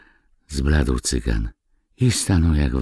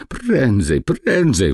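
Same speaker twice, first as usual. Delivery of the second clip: rising, louder hurry-up call; urgent call; 8 semitones higher, 4 dB louder, slower than usual. A narrator's reading. Gnome urging the scholar to hurry, loud urgent call. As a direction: call out fast, the gypsy is coming. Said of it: "wołał podziomek".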